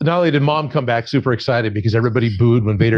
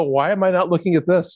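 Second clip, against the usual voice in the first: put-on child self; 5 semitones higher than usual. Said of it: "and go".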